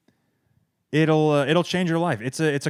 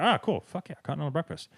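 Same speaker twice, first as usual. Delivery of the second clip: sarcastic fake enthusiasm; 2 semitones higher, 7 dB quieter, faster than usual. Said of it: "I'm like".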